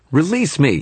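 high-pitched little fairy, demanding; tiny captive giving orders, pitched high; Toot's demand. A narrator's reading. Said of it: "he demanded".

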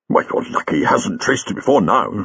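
mild, understated brooding; a touch of preoccupied gravity. Acted. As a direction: mull it over as you speak. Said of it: "said the doctor broodingly".

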